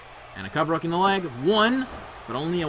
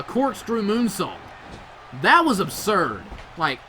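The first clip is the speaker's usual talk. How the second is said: ordinary talk, nothing marked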